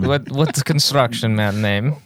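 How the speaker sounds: put-on slow, broken English with a Russian accent. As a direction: ask it like a comic Russian gangster. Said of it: "doing the Russian accent".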